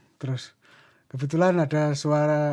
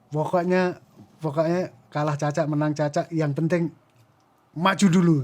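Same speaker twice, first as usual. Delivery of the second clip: put-on lightly Javanese-accented pep talk, building to a louder finish; 2 semitones higher, 3 dB louder than usual. Mas Agus cheering on the fighter, in a Javanese accent. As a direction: urge them on with a Javanese lilt. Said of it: "bilang dengan logat Jawa".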